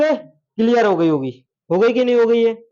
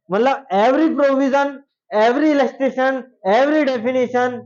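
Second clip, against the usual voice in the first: each "every" slowly marked, a little higher; slow, stressed list; 4 semitones higher, much slower than usual. Shown as a demonstration. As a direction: lay out "every provision, every illustration, every definition" word by word. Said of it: "teacher spells out each item".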